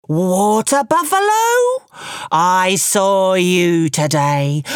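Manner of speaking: a lightly voiced tiger, slow and pressing; a proud tiger questioning, slowing to press each why; Tiger demanding. Tiger demands answers from Water Buffalo, lightly voiced and insistent.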